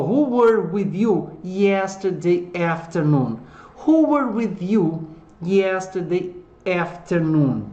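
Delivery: slow question with "Who" highest, stepping down to "afternoon"; stress on WHO. Shown as a demonstration. Teacher models a long question slowly, stress on "Who". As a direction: lean on "Who", then space out "yesterday afternoon". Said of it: "a entonação tá nas palavrinhas com W H".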